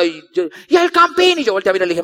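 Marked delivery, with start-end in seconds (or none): 0.7-1.4 higher, stretched mock chant; mild mock yell, pitched up; imitated crowd cry. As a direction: call it out like a stadium crowd. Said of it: "cuando comenzaron a gritar".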